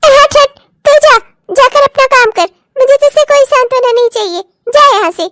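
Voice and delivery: sharp, irritated order to leave; angry dismissal. Acted. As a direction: shoo them away angrily. Mother-in-law sends daughter-in-law away.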